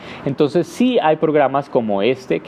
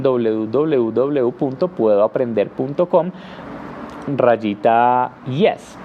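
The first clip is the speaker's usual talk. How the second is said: slow spelled-out address; slower than usual. Shown as a demonstration. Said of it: "Y E S".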